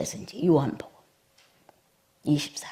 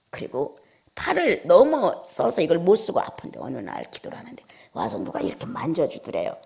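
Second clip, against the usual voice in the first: ordinary delivery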